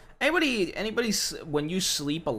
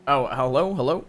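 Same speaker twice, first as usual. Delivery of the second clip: loud, raised hello; calling hello loudly; 8 dB louder than usual. Real, not acted. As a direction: call into a bad phone line. Bad phone line, calling.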